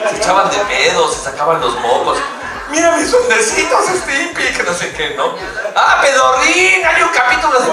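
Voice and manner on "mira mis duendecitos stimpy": high, laughing shout; gleeful gross show-off; Ren. Retold or imitated. Ren showing Stimpy something gross, high gleeful shout. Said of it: "fui la voz de Ren".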